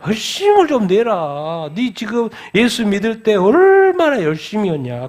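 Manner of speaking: slow, stretched-out exhortation; the Lord exhorting. Acted. The Lord rebuking a cooled believer, drawn-out exhortation. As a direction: draw out the key words in a pleading rebuke. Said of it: "주님이 뭐라 그래요".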